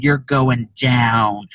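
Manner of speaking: drawn-out menacing threat; slow threat. Retold or imitated. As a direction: spell out the threat slowly. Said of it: "I said".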